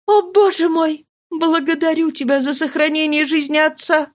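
high, fervent thanks; relieved prayer. Acted. Marie thanking God her father lives: fervent, relieved.

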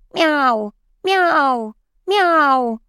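cat meows, high and called from afar; cat calling out loudly from far away; loud distant meows. Acted. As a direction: meow loudly like a cat in another room. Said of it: "Громко и издалека отозвалась Басти".

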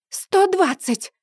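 high, slow shouted bid. A narrator's reading. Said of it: "выкрикивает та".

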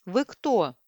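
lightly voiced creaky old woman; a creaking old voice asking. A narrator's reading. Old woman questions the caller, lightly creaky. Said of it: "продолжал скрипеть голос".

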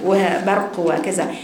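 ordinary delivery

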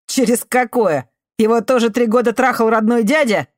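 abused youth hurls his secret at her; bitter outcry. Acted. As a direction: spit out the painful truth. Artemiy's furious bitter outburst.

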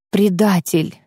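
faint hoarse dying croak; barely audible rasp. Acted. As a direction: rasp it out with no strength. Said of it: "едва различимо прохрипел он".

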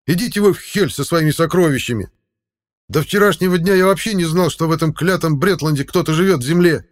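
loud, high angry tirade; furious yell. A narrator's reading. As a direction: rage at them, done with caution. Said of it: "заорал Ивар".

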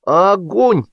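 high, climbing exclamations; heated one-word volleys; escalating insistence. A narrator's reading. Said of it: "продолжал он с обострением".

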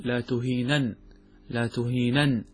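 slow "لا تهينن", both n's sounded: la tuheenan; double n. Shown as a demonstration. Teacher shows the original form, "تهينن" with two n's. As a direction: draw out "تهينن" and end on a second n. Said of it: "بنونين".

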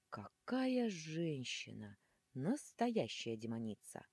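very slow, breathy, awed sigh of delight; breathless admiration. Acted. Horned groom admiring the raging heroine, breathless and slow. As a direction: exhale it like a smitten suitor. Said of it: "с придыханием выдохнул рогатый жених".

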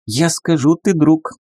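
high squeaky creature; lemur voice. Acted. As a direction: chirp it like a small lemur. Lemur speaks.

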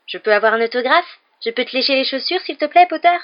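high, loud mocking fanboy imitation; Crivet. A narrator's reading. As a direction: mimic an eager pest begging, voice pitched right up. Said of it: "en imitant Crivet avec un certain talent".

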